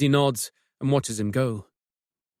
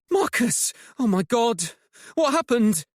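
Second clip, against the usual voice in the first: shocked; 11 semitones higher than usual. Acted. Finds injured partner, shocked.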